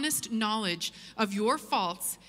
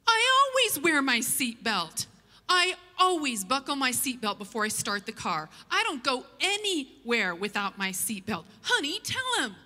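indignant insisting; 2 semitones higher than usual. Retold or imitated. Husband insisting to officer, then pleading with wife, indignant.

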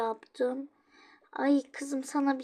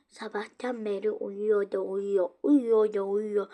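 mild mock grumble, slowing at the end; a touch of childish irritation; pretend annoyed; 5 dB louder than usual. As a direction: act a little fed up that dad is still sleeping. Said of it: "Sinirim bozuldu ya".

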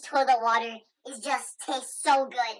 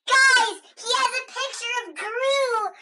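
scared squeal; 8 semitones higher, 3 dB louder than usual. Pretend. Shocked by picture.

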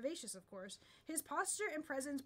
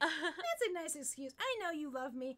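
laughing; 3 semitones higher, 5 dB louder than usual. Acted. Dialogue read while laughing.

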